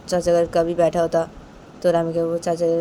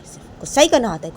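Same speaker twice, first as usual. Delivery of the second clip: higher, louder complaint; louder repeat; 6 semitones higher, 5 dB louder than usual. Acted. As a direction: say it again with more heat.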